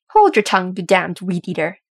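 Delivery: indignant snarl, hard on the first words. A narrator's reading. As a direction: snarl it like an offended dwarf. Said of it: "Thorin snarled".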